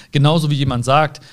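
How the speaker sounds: ordinary talk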